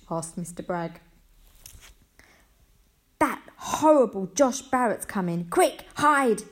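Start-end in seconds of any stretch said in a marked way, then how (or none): 3.2-6.4 loud, higher, urgent warning; yelling. A narrator's reading. Franklin warning everyone that Josh is coming, urgent yell. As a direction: yell the alarm, hitting the last words hardest. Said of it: "yelled Franklin".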